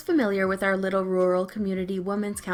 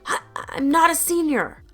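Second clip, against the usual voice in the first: higher, stammering offended gasp of a reply; shocked sputter; 9 semitones higher, 6 dB louder than usual. Retold or imitated. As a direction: sputter it out, caught off guard. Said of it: "she sputtered out".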